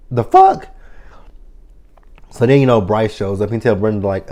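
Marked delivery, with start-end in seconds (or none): 0.1-0.7 incredulous whisper. Retold or imitated. Brenda's mock outraged quote.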